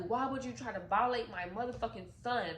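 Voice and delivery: high, loud, building fury; furious shouting. Retold or imitated. Mother holding a knife to the abuser's throat, yelling furiously.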